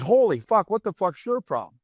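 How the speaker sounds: loud, high aggressive confrontation; tough-guy challenge. Retold or imitated. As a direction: square up, demanding. Tough assistant coach confronts.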